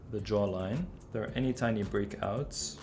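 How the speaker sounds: ordinary delivery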